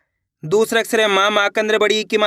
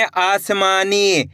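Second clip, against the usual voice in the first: आसमानी drawn out slowly; slow reading; much slower than usual. Shown as a demonstration. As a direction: sound out आसमानी slowly for learners. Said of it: "कैसे पढ़ेंगे?". (आसमानी धीरे पढ़ना)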